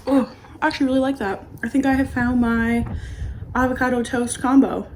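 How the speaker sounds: loud, delighted food reaction; excited. Real, not acted. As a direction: rave about the taste. Loves first bite.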